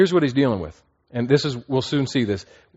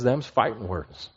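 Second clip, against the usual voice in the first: slow, softer drawl-like put-on voice; folksy tough guy; 2 semitones lower, 6 dB quieter than usual. Preacher voicing Paul squaring off with false teachers, slow and softer. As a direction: lean back and growl it like a cowboy. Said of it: "And Paul says".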